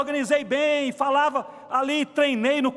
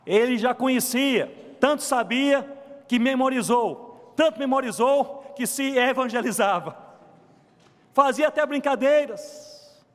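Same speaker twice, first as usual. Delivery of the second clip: measured, insistent pulpit delivery; emphatic preaching. Real, not acted. Preacher marvels at a man who memorized it all, emphatic. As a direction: build the case phrase by phrase. Preaching builds after quiet question.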